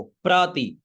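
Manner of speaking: प्रति said slowly and clearly as प्र plus ति; प्रति pronounced carefully; pronunciation demo. Shown as a demonstration. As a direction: spell out प्रति with a crisp प्र and short ति. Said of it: "तो क्या हो गया उच्चारण?".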